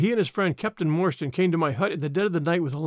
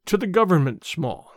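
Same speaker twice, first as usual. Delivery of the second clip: halting, stumbling over the words; stammered. Acted. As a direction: get it out haltingly, caught off guard. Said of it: "he stammered".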